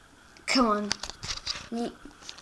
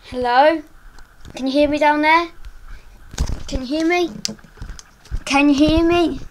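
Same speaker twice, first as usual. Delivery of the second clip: loud call to someone below; calling down from tower; 4 semitones higher, 7 dB louder than usual. Real, not acted. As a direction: shout down, trying to be heard. Calling to man walking below.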